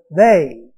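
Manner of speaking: a loud, falling "they"; stress on they. Shown as a demonstration. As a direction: hit the word "they" hard.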